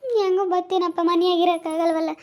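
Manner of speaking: high, plaintive refusal; weepy pleading; tearful. Acted. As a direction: protest as if about to cry. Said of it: "ನೀನ್ ಯಾಕೆ ಹಂಗ್ ಅಳ್ತೀಯ?".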